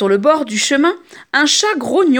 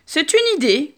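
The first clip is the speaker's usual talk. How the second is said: squeaking rat; 4 semitones higher than usual. Acted. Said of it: "couine le rat".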